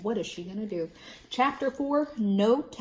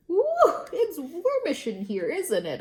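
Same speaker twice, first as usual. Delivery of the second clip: high, nervous laughing chatter; a nervous girl making small talk with the office lady; 8 semitones higher, 4 dB louder than usual. A narrator's reading. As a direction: laugh it off awkwardly.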